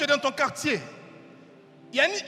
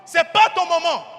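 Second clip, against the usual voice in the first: crowd scolding; 3 semitones higher, 5 dB louder than usual. Acted. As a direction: put him in his place. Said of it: "Des gens lui disent".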